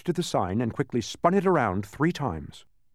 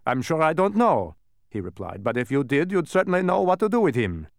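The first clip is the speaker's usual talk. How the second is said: tag; 8 semitones higher, 5 dB louder than usual. A narrator's reading. Dodecahedron retorts, replied between.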